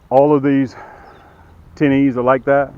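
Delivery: winded, catching breath between words. Real, not acted. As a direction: talk while short of breath. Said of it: "I'm out of breath".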